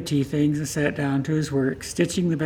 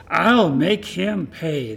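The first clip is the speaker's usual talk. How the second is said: stretched-out stubborn protest, a bit louder; slow protest; 2 semitones higher, 4 dB louder, much slower than usual. Acted. Old woman protesting to Martin, slow and stubborn. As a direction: drag each word out in protest.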